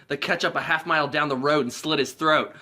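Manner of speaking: laughing through the punchline; can't keep a straight face. Real, not acted. Telling the movie joke, laughing.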